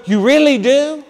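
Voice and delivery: put-on young man asking the priest in delighted disbelief; surprised. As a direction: ask it hardly believing. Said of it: "He goes".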